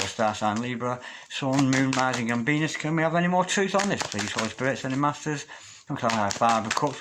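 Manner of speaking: murmured prayer-like invocation to spirit guides. Acted. Tarot reader asks her spirit guides for clarity, prayer-like murmur.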